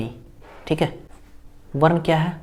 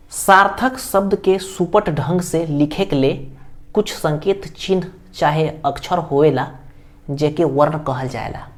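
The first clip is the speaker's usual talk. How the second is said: reading the definition aloud. Real, not acted. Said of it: "वो क्या लिखा है मैंने?".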